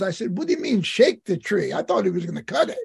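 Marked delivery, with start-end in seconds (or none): 0.4-1.7 mildly puzzled retold question, close to usual voice; a little confused. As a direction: ask it with a touch of confusion. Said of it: "I was a little confused".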